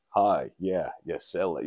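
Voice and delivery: lightly put-on American accent; a hint of American business talk; American businessman. American businessman on a deal, mild American accent. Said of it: "like, an American businessman".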